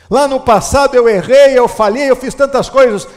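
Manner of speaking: loud preacher's cry, phrase by phrase; fervent preaching. Acted. Pastor voicing a believer's confession, loud fervent preaching. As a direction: proclaim it out loud to the church.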